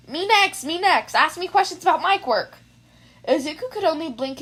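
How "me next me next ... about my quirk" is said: higher, louder, bouncing eagerness; eager. Acted. Kaminari bouncing in his seat asking for analysis, high and loud. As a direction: beg to go next like a kid. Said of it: "jumped up and down in his seat".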